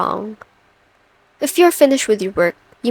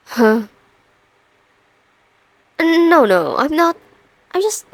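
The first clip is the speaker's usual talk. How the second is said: stunned stammering, pitch jumping up; flustered; 4 semitones higher than usual. Acted. Boss processing what an employee just told her, flustered. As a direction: stumble over broken words with long stalled pauses.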